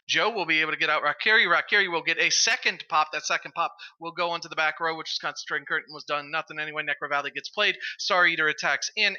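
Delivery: rapid-fire auctioneer patter; auctioneer pace. Real, not acted. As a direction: rattle it off like an auctioneer. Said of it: "You sounded like an auctioneer there".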